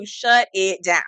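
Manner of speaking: slow, laughing through the words. Real, not acted. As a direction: chuckle as you repeat shut it down. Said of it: "repeated with laugh".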